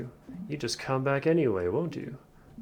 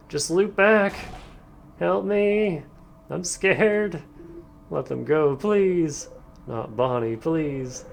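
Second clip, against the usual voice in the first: higher, begging voice; frightened pleading; 4 semitones higher, 4 dB louder, much slower than usual. Acted. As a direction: beg for mercy.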